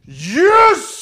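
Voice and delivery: high, loud gleeful cry; triumphant yes. Retold or imitated. Imitating the guest cheering over his card hand, gleeful. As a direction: cheer like you just won.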